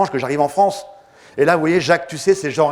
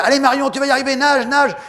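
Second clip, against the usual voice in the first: much higher, louder cheer; cheering team; 10 semitones higher, 4 dB louder than usual. Retold or imitated. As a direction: egg her on from the boat. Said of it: "son équipe lui disait". (l'équipe encourage Marion, cri aigu et fort)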